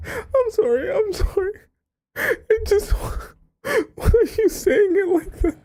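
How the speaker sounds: real laughing fit, very high squeal; helpless laughter. Real, not acted. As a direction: squeak the words out through uncontrollable laughter. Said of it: "it just makes me laugh".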